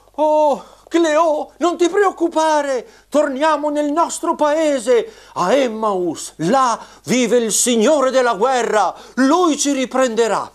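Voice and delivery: high puppet voice, reassuring; squeaky shrill puppet voice. Acted. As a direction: comfort a friend in a squeaky voice. Fefa puppet answers Cleo.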